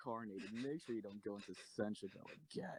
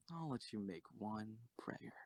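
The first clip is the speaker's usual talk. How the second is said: soft whispered threat; quiet, mocking whisper before the execution; menacing whisper; 5 dB quieter than usual. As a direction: whisper it like a cruel favour.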